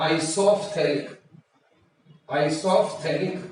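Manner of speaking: slow "isophthallic" with an audible f before th; PH sounded. Shown as a demonstration. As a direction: draw out "isophthallic" as eye-soff-THAL-ik. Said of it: "अब पीएच silent नहीं है". (धीरे से "isophthallic", पीएच की फ़ आवाज़ के साथ)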